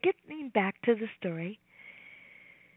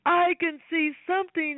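shouting; 5 semitones higher than usual. Acted. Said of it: "he shouted".

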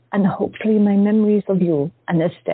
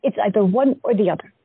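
she can't believe what she just heard; shocked disbelief; 5 semitones higher than usual. Acted. Tessa protesting to her lover, high with disbelief.

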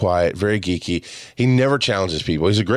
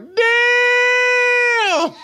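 a huge, high shouted "Damn"; the whole group hooting in shock; stunned shout; 3 dB louder than usual. Retold or imitated. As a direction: yell it out in sheer amazement. Friends react to the takedown.

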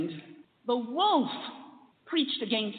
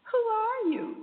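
high echo of the question; echoed call; 13 semitones higher, 3 dB louder, faster than usual. Retold or imitated. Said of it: "And he answered".

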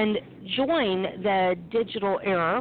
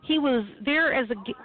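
talking through hiccups; interrupted by a hiccup; 3 semitones higher, faster than usual. Real, not acted. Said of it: "I have the hiccups".

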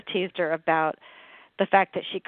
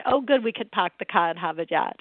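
put-on Boston accent. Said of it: "And she said".

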